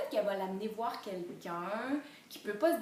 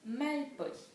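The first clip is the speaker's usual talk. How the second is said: MALPOLI said as three separate syllables; découpé en syllabes; 6 semitones higher, slower than usual. Shown as a demonstration. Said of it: "On a trois syllabes". (« Malpoli » découpé en trois syllabes)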